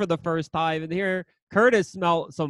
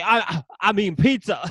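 imitating Curtis. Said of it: "'Cause I'm trying to buy me some pussy".

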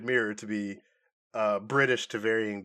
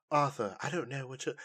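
softer, lightly British imitation; light British accent; 6 dB quieter than usual. Co-host imitating Mira's first scene, soft British accent. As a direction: say it quietly, slightly British. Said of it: "she was there talking like".

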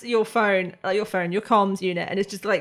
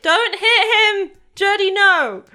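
high, loud, slow scolding with a laugh; a mother stopping her child, half laughing; mom scolding; 12 semitones higher, 8 dB louder, slower than usual. Acted. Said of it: "And Tasha's like".

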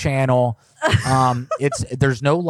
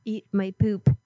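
silly high voice; 8 semitones higher, 4 dB quieter than usual. Pretend. Silly voice while on hold.

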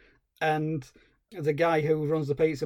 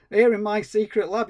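higher, louder hammed-up mad scientist; 6 semitones higher, 6 dB louder than usual. TV mad scientist prodding the hero with clues, hammed-up. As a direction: ham up the hint about the lab. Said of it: "he's going".

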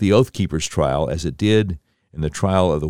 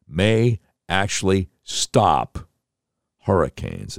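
slow, dropping disbelief; sarcastic; slower than usual. Real, not acted. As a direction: drag it out mockingly. Host mocking the senator's claim.

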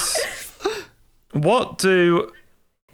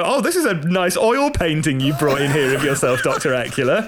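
vampire voice; 5 semitones lower than usual. Retold or imitated. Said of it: "someone did it in the fucking voice".

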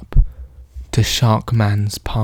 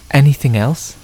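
cheery; 4 semitones higher than usual. Acted.

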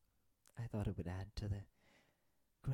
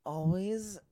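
flirty; 6 semitones higher, 7 dB louder than usual. Acted. Rise Beth teases about secrets.

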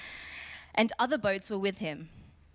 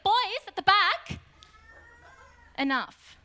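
lightly voiced classroom telling-off; scolding teacher; 9 semitones higher, 5 dB louder than usual. Teacher to misbehaving boys at the back, lightly scolding. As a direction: call out, pause, then drop to end it. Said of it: "misbehaving child in the classroom".

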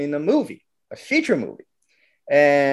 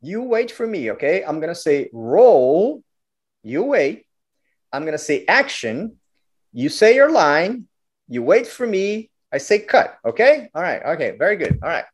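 a hint of a brisk film director, pitched up; 4 semitones higher than usual. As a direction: instruct the boy like a busy director. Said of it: "the director comes".

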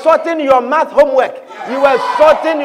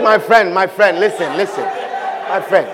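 admonishing angels; 7 semitones lower than usual. Acted. Angels answer the presumptuous tither.

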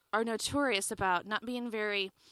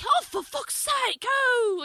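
high, drawn-out English fluster; mock posh exasperation; Hugh Grant; 10 semitones higher, 3 dB louder, much slower than usual. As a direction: squirm through it like a flustered Englishman. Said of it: "Hugh Grant".

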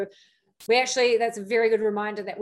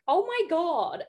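high-pitched mock-shocked gasp of words; retold prudish shock; 7 semitones higher, slower than usual. Prudy podcast co-host reacting to sex talk, mock shock. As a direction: play the scandalized prude, pitched up. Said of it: "I was kind of the prudy one".

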